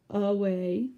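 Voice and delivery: away, weak a, stress on way; a-WAY, with the weight on way. Shown as a demonstration. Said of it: "we emphasize more the way".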